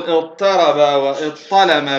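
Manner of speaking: اضطرب واضطلم with a light t in each; disallowed ta pronunciation. Shown as a demonstration. Teacher warns against this form, light t in اضطرب واضطلم. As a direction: keep the t plain in اضطرب واضطلم. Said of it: "لا يجوز لغة أن تقول".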